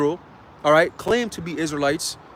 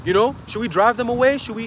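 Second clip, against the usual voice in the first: higher-pitched, exasperated retold complaint; mock the fed-up followers pleading with their leader; retold irritation, pitched up; annoyed disciples; 5 semitones higher than usual. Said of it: "they were pissed".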